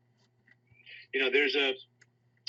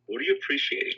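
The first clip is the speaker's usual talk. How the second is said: "What are you appreciating?" with "you" much higher; emphatic high question; faster than usual. Shown as a demonstration. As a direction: lift the whole question very high. Repeated question, pitched up.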